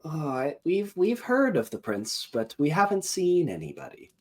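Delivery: high-pitched goblin, evasive. Acted. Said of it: "one of them goes".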